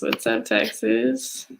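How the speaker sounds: excited shout-out. Real, not acted. Host greets the Texas viewer, drawn out and excited. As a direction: stretch out the greeting with delight.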